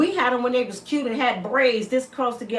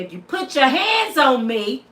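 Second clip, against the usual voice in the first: raised voice. Shown as a demonstration. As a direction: lift the voice to scare him off. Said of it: "lift my voice and say".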